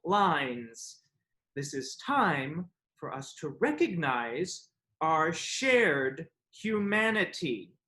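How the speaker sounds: slow, measured speechifying; lofty written reply. Acted. Man reads his reply on shared humanity, slow lofty declaiming. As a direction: declaim it grandly, phrase by phrase. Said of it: "I responded".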